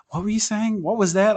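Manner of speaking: re-enacted bewildered questioning; baffled listeners. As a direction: ask it in high-pitched mock confusion. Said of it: "everyone was like".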